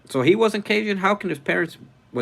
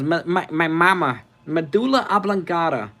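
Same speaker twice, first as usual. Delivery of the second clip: higher, louder movie-character imitation; Water Boy; 6 semitones higher, 5 dB louder than usual. Host quotes a Cajun movie character to viewers, imitated voice. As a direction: mimic the mama's-boy hero, pitched up. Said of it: "movie where he says".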